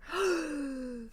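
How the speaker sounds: long, audible sucked-in breath; gasping draw on a pipe; mimed smoking inhale. Acted. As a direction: act out taking a big drag. Miming another drag while smoking.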